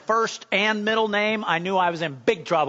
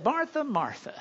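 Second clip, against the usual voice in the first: firm, scolding call of her name; a warning call, Martha's in trouble; stern warning; 6 semitones higher, 5 dB quieter than usual. Retold or imitated. Jesus warning busy Martha, stern. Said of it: "you know you're in trouble".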